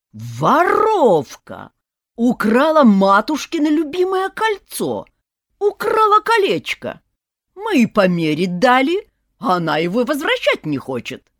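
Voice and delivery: very loud, high hysterical yell; grandma howling about stolen ring; shrieking accusation. A narrator's reading. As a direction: scream thief at her. Granny screams thief.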